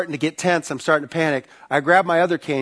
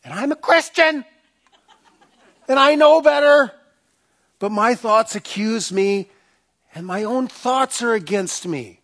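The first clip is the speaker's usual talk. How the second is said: higher, anguished prayer voice; pleading believer; 8 semitones higher than usual. Retold or imitated. A Christian complains to God that He's against him, anguished. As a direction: confess your doubts to God, strained. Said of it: "come to him and say".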